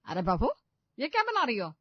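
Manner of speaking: mother-in-law angrily catching the bride's mistake; angry mother-in-law. A narrator's reading. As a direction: snap at her in disbelief. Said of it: "गुस्से से देखती है".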